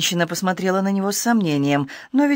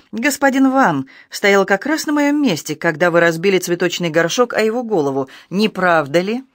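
sharp; 2 semitones higher than usual. Acted. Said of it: "он резко добавил".

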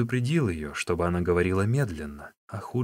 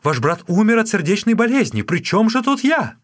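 a much higher, louder, protesting woman's voice; the sister-in-law denying guilt in a higher, louder voice; protesting young woman; 11 semitones higher, 6 dB louder than usual. Acted. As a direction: plead innocence in a higher, put-on female voice.

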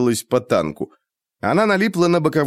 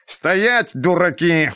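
higher shrill squeal, rising; shrill screeching bird woman; 7 semitones higher, much slower than usual. A narrator's reading. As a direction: screech it even higher at the fools. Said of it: "пронзительно завизжал он".

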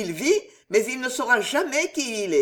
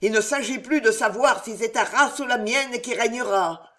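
a hint of hoarse, hissing rage, louder; hoarse hissing fury; 3 semitones higher, 4 dB louder than usual. The queen vowing Jeanne d'Albret's death in hoarse fury. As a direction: swear death on her enemy. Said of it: "rauques et sifflantes".

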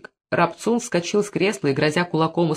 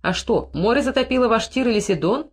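higher-pitched mocking question; lightly sneering; 7 semitones higher than usual. A narrator's reading. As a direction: taunt with a lifted, mock-innocent question. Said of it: "насмешливо спросил Дагон".

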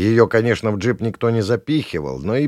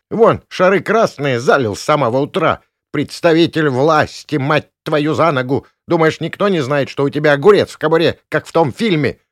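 much higher, loud jeering hag; mocking old woman; 7 semitones higher, 6 dB louder than usual. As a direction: jeer at the drunk cop. Gavrilovna mocking the policeman. (издевательски, визгливо)

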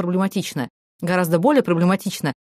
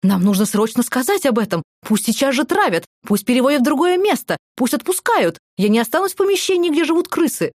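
rising panic; 6 semitones higher than usual. Acted. Maya demands action over rat.

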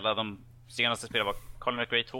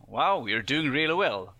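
slightly higher, mock praise; imitating the game's encouragement; 4 semitones higher, 4 dB louder, slower than usual. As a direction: play an over-encouraging game coach. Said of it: "de bara".

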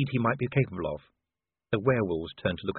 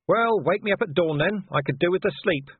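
higher, loud dry retort; sarcastic shout; 8 semitones higher, 4 dB louder than usual. Acted. Vimes shouting down.

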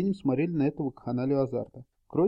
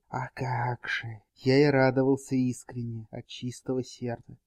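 hissing witcher voice; 2 semitones lower than usual. Acted. Witcher mocks knight.

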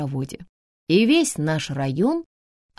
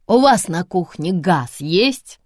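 loud slow bellowing question; trumpeting bellow; 5 dB louder, slower than usual. Acted. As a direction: trumpet it like a wounded bison. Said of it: "протрубила раненым зубром Ба".

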